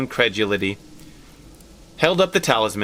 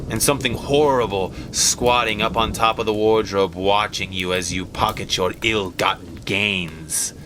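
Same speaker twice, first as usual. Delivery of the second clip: Herbert teasing his parents goodnight with a mock-sinister, slower tone; spooky teasing; 2 semitones lower than usual. Hammed-up ghost-story voice.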